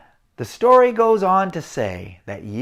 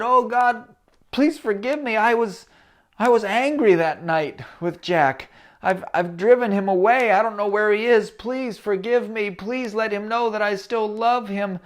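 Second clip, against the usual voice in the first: raised, earnest pleading; father's confession prayer; 6 semitones higher than usual. Acted. Father confessing to God about driving Jack away, pleading. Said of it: "went on to confess".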